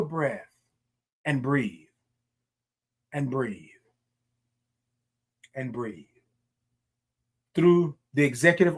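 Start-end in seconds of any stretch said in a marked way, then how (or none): 0.0-6.1 low, soft, falling voice with long pauses; calming breath cue. Real, not acted. Host guides listeners to take a breath, calming. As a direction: sink softly into each cue.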